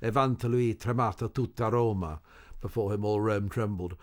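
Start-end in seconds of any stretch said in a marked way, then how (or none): 0.0-2.2 Tosca's line. Retold or imitated. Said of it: "Tosca says that when she's killed Scarpi".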